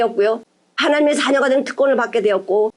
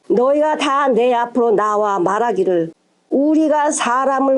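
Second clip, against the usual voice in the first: slow, measured read-aloud; scripture reading. A narrator's reading. Preacher reading the verse to the congregation, slow scripture reading. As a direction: read the verse out slowly, phrase by phrase.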